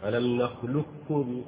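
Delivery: "نخلقكم" slowly with a pure doubled kaf; full assimilation. Shown as a demonstration. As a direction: recite so only kaf is heard. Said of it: "كاف كاملة خالص".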